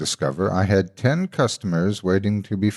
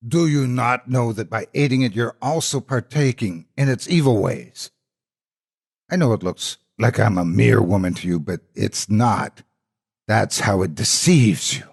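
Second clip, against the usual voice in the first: a zealot's raised, higher warning voice; booming red woman; 3 semitones higher than usual. A narrator's reading. Red woman warning the fleeing narrator, booming. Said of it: "the red woman boomed".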